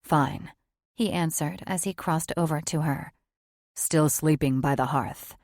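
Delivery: low, subdued male voice; lightly voiced weary man. Male character voice.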